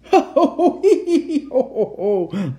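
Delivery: hammed-up jolly Santa laugh. A narrator's reading. Santa clapping at the jack-in-the-box, laughing. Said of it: "laughed Santa".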